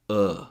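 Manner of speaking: "uh" as a short relaxed schwa; schwa sound. Shown as a demonstration. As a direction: give an isolated, relaxed "uh". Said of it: "which is a schwa sound".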